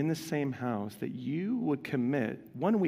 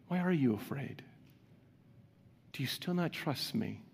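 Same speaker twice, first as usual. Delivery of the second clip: gentle invitation; 6 dB quieter than usual. Retold or imitated. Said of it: "I see that as an invitation".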